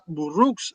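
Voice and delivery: Burroughs said tentatively as "bu-ruks"; pronunciación tentativa. Real, not acted. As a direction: say Burroughs Spanish-style, with u vowels, unsure. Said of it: "¿Se pronuncia así?". (Burroughs pronunciado con duda como «buruks»)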